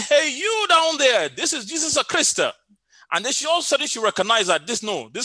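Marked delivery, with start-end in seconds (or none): 0.0-2.4 put-on Italian accent. Italian workman repeating his prank on the praying woman, high mock-divine Italian accent. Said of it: "then in his Italian voice".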